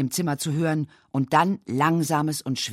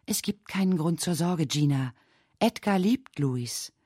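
gentle. Acted. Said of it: "sprach sanft".

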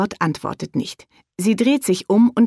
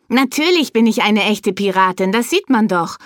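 indignant; 4 semitones higher, 4 dB louder than usual. Acted. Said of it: "antwortet Bea entrüstet".

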